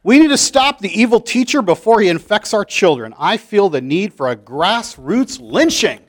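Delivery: a fire-and-brimstone preacher whipping up a crowd; TV preacher Reverend Jeremiah. Acted. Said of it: "Reverend Jeremiah is on T V".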